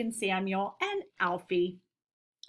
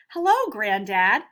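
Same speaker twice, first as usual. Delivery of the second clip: louder, a lightly voiced cheerful girl; Amy greets grandfather, lightly voiced cheerful; 9 dB louder than usual. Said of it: "said Amy cheerfully".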